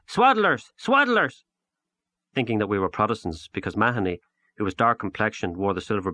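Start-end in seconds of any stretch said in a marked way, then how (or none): 0.1-0.7 high, loud jeering scream; children screaming. A narrator's reading. Ragged children screaming taunts after the boys, high and loud. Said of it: "the ragged troop screaming after us". 0.8-1.4 high, loud jeering scream again; children screaming. A narrator's reading. The ragged troop still screaming after them, high and loud. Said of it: "the ragged troop screaming after us".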